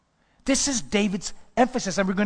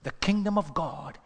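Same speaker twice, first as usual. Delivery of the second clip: slow scripture; 5 dB quieter, slower than usual. Acted.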